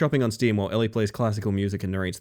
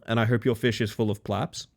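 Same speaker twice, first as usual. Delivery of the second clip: usual speaking voice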